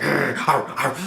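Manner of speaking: mock dog barks, lightly done; dog howl. Reviewer imitating Spot's dog noises with light mock barks. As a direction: bark like a boy pretending to be a dog. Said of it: "he goes like".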